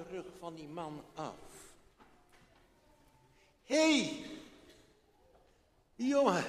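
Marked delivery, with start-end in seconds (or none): 3.6-6.4 loud high call across the wood. Acted. Old man calling out to the boy, loud. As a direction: hail the boy.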